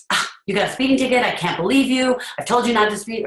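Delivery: a hammed-up lecturing parent, fast and shrill-pitched high; scolding parent. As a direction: nag the kid about the ticket. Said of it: "But I can be".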